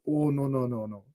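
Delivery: light put-on Swedish accent; a hint of a Swedish doctor's accent; lightly voiced Swedish doctor refusing; mock Swedish accent. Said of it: "that's why I'm putting on that accent".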